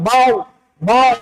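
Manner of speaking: বার with a heavy, rounded র; thick pronunciation. Shown as a demonstration. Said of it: "রকে মোটা করে পড়তে হয়". (বার-এর র মোটা করে পড়া)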